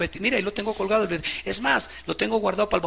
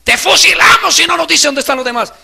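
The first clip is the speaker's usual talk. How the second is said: persecutor's threat; 11 semitones higher, 15 dB louder than usual. Retold or imitated. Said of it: "los verdaderos hermanos dicen".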